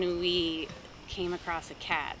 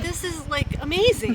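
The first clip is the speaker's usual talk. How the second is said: mock amazement; 7 semitones higher, 7 dB louder than usual. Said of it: "but I was like".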